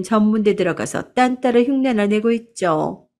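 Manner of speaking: lightly voiced arrogant sister-in-law, indignant then sneering; a hint of a snob scoffing at the family; haughty aunt. Sister-in-law insulting her elder's family, mildly acted sneer.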